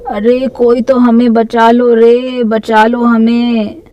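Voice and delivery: drawn-out wailing plea; crying out for help. Acted. Trapped boys beg to be saved from witch, drawn-out wail. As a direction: wail to be rescued, stretching the last words. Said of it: "मनचलों की चीख पुकार".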